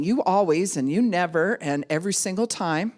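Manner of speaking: lightly whined "you always and you never and every single time"; hammed-up nagging "you always and you never"; mock accusing. Chick imitated nagging her partner, mild mock whine. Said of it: "it's like".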